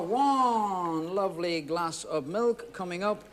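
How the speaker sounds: slow, stretched showman's serve; drawn-out presenting. Real, not acted. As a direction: hold the first word long as you present it. Presents the poured drink with flourish.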